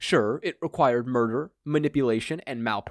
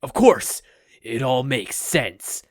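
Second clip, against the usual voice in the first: epiphany; 6 dB louder, slower than usual. Acted. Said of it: "he reached an epiphany".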